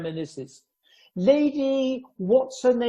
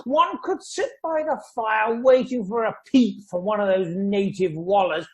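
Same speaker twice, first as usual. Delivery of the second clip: blustering shout; 4 semitones higher than usual. Acted. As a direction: bellow it like an old army major. Major boasting of night vigils.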